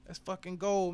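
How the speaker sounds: hype shout. Real, not acted. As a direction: scream it the second time. Second call escalated.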